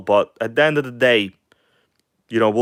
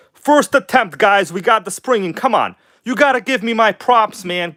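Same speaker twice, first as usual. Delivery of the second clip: excited; 8 semitones higher than usual. Real, not acted. Proud of a first-try install.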